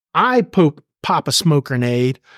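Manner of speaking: plain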